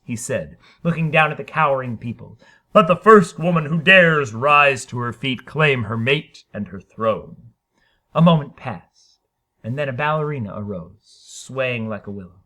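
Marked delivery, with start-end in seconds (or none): 2.7-7.5 regal challenge. Acted. Harrison addresses cowering people.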